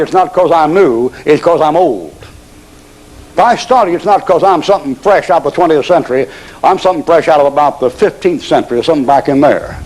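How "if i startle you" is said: preacher's rising emphasis on startle; emphatic repeat. Shown as a demonstration. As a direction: startle pitched higher, punched.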